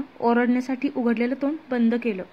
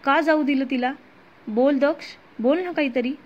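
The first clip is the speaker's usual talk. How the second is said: crying plea; 3 semitones higher than usual. Acted. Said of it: "आजी रडत म्हणाल्या".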